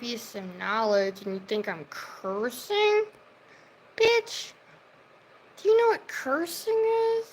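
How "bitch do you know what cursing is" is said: high, loud furious yell; angry shout. Real, not acted. Streamer yelling at a rude commenter, furious shout. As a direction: blast it at the commenter.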